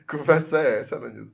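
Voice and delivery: laughing while asking; spoken through laughter. Real, not acted. Laughing at the slide joke.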